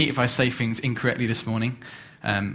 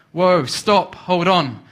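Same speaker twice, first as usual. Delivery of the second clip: higher and louder alarm at the cliff edge; panicked cry; 6 semitones higher, 7 dB louder, much slower than usual. Acted. Rider sees the cliff coming and shouts in panic. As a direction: yell for the horse to stop before the drop.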